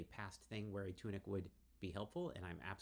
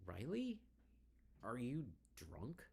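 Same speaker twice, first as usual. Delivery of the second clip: alarmed question; 6 semitones higher, slower than usual. Acted. Worried friend confronting drunk Riley.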